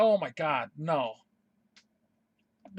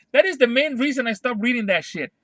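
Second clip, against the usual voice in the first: loud, indignant declaration; real worked-up rant; 3 semitones higher, 5 dB louder than usual. Real, not acted. Fan explaining why they quit reading, worked up. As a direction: push it out with angry force. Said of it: "I'm getting worked up".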